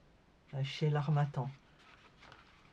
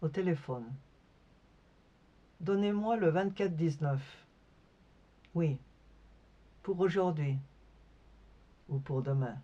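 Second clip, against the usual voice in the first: sparse recitation with long pauses between fragments; poetry reading. Acted. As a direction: let each short phrase hang in silence. Reads her poem aloud. (lecture de poème, entrecoupée de silences)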